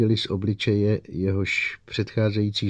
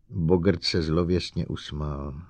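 ordinary delivery

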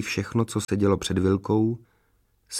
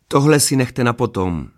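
louder, good-natured reproof; kindly chiding; 2 semitones higher, 5 dB louder than usual. A narrator's reading. Father interrupts the embracing couple, kindly chiding. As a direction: gently tell them off, voice raised a little. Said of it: "napomenul je laskavě pan Majer".

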